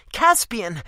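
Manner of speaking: loud, high cry of his name; sharp protest. A narrator's reading. Sarissa protesting to Caspian, a loud sharp cry. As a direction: stop him mid-argument.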